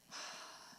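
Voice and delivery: long unvoiced sigh of frustration; heavy sigh after a hard message; frustrated sigh. Real, not acted. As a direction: let the air out, weary and frustrated. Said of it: "It just makes me wanna just, sigh in frustration".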